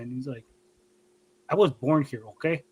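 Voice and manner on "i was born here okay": lightly imitated dad's Mexican accent. Son mimics dad defending his birthplace, light Mexican accent. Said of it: "I give you an accent".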